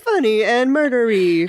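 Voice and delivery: lightly voiced stiff robot; a hint of a robot readout. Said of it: "read that in a robot voice".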